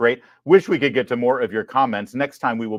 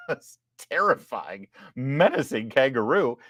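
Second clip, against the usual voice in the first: laughing. Real, not acted. Host laughing at a kangaroo video.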